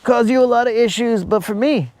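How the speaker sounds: lightly voiced suave guy; mock smooth-talker. To the woman, a mild mock charmer. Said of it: "You'd be all like".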